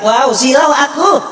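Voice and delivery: slow rising cry of a dazzled ghost; kuntilanak complaining of glare. Retold or imitated. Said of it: "Kata kuntilanak".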